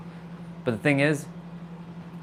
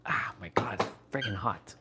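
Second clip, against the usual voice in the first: whispered through hot food; mouth full of hot food; 2 semitones lower, 10 dB quieter than usual. Real, not acted. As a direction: breathe out around scalding bite. Hot plate burning hands.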